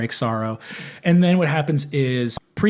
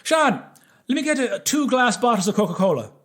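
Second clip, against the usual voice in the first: lightly voiced calling barman; 9 semitones higher than usual. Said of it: "turns to the bar and goes".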